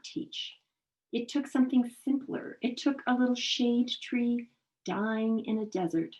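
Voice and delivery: unhurried poetry recitation; poem reading. Acted. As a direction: recite it as a poem, pausing before the closing phrase. Reads a poem aloud.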